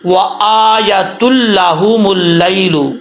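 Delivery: slow, drawn-out Quranic recitation. Shown as a demonstration. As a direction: recite the verse slowly and carefully. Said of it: "अब यहाँ पर कैसे पढ़ेंगे?". (धीमी तिलावत)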